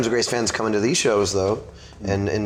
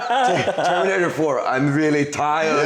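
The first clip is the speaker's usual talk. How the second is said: slow, higher-pitched mock weary voice; tired robot spoof; 7 semitones higher, slower than usual. Guest spoofs an ageing Terminator, tired robot voice. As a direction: drag it out as a worn-out Terminator. Playing a worn-out old Terminator.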